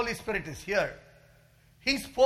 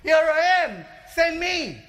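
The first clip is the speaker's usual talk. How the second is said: raised, louder eager cry to the Lord; retold eager prayer; 11 semitones higher, 9 dB louder than usual. Pastor retells telling the Lord he is free, eager and raised. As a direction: lift the voice high, offering yourself. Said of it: "I told the Lord".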